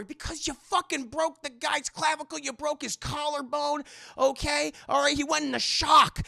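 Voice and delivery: a hint of a furious mentor; scolding Batman. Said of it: "Batman scolding Robin".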